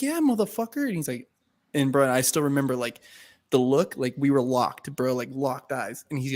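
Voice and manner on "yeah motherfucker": 1 defiant retort. Retold or imitated. Retold defiant reply to bouncer.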